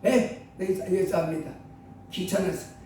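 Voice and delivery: low, bored brush-off; lazy dismissive unbeliever. Retold or imitated. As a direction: shrug it off like you can't be bothered. Mocking unbeliever, lower and softer. (귀찮다는 듯 시큰둥하게 거절하는 말투)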